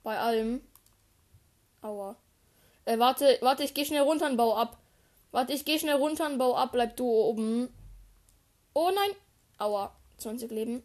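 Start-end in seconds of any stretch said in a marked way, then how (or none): 2.9-7.7 panicking gamer. Real, not acted. Urgent retreat under fire. 8.7-9.1 panicked oh no. Real, not acted. Taking damage in fight.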